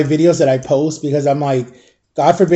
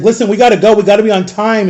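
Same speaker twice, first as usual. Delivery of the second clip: mock yell; 5 semitones higher, 5 dB louder, faster than usual. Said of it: "was like".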